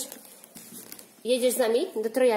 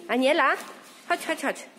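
calling out; 7 semitones higher than usual. Real, not acted. Calling toddler in parking lot.

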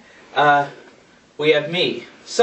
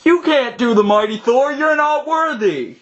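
dramatic shout; 8 semitones higher than usual. Pretend. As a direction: proclaim it like a movie hero. Mock challenge, dramatic shout.

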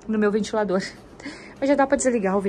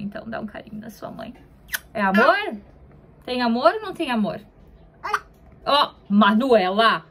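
playful mock scolding. Mother mock-scolds baby.

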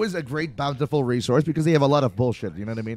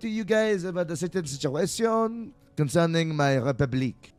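Quebec president; 3 semitones higher than usual. Acted. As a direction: address the American as a proud new republic. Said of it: "release myself now as Quebecois".

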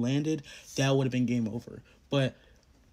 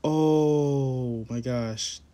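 drawn-out, louder oh my gosh; stunned disbelief; 3 dB louder, much slower than usual. Real, not acted. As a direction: stretch it out in happy shock. Just won the round.

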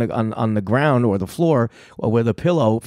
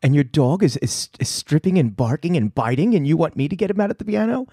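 flustered; 3 semitones higher than usual. Retold or imitated. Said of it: "like, crazy flustered".

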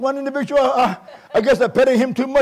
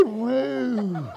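soft, falling mock moo-like "woo"; teasing, droopy "woo"; cow imitation; 9 dB quieter than usual. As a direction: mimic a feeble, cow-like whoop. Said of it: "You sound like a cow".

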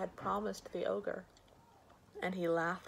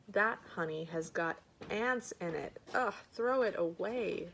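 mildly disgusted, fussy refusal; disgusted complaint. Acted. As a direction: reject it with an "ugh" of distaste. Sick wife rejects husband's honey.

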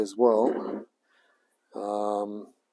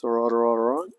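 quoted catchphrase; 5 dB louder, faster than usual. Retold or imitated. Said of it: "he says".

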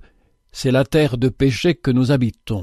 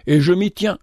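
avec une pointe d'ironie légère; ironique; 5 semitones higher than usual. Acted. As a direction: ironie discrète, en défiant l'autre. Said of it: "ajouta-t-il en montrant avec ironie". (un soupçon d'ironie, sans forcer)

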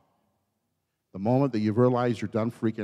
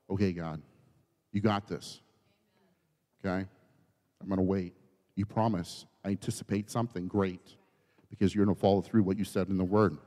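stilled; 3 semitones lower, 6 dB quieter than usual. Acted. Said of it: "he had his aha moment".

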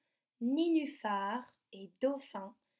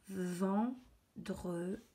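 "Vendredi" very slowly, with gaps between syllables; 3 semitones lower, much slower than usual. Shown as a demonstration. Teacher rereading the written word, slowly split. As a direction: stretch ven, dre, di apart.

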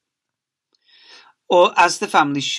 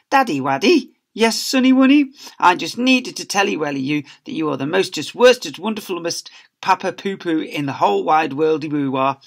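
put-on high, louder sugary baby talk; gushing child; 4 semitones higher, 5 dB louder than usual. Pupil gushing to his papa, high baby talk. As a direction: coo it like a teacher's pet.

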